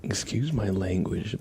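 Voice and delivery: whisper. Real, not acted. Whispered apology before swearing.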